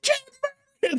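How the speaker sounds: very high-pitched accusing screech; mock outraged shriek. Animal activist throwing red paint, mock outraged shriek. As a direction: shriek it like a hammed-up protester.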